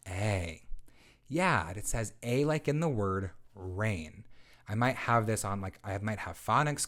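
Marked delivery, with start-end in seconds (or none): 0.1-4.2 bright, clear teacher voice for a lesson; teacher modeling. Shown as a demonstration. Teacher introducing a vowel team to a child, clear and encouraging. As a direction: model the sound like a reading teacher. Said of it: "So I might say something like".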